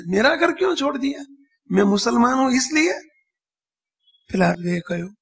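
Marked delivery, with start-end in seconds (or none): 0.1-2.9 imitating an old woman's higher-pitched question. Old Muslim woman asks if her faith is why, questioning. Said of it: "એટલે ડોસી પૂછે".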